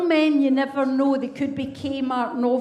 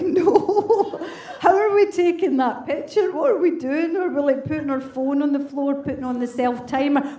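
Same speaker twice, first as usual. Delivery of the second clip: incredulous laughing no. Retold or imitated. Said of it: "And I was like".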